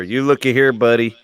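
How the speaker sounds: mock Virginia accent. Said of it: "We have all accents here".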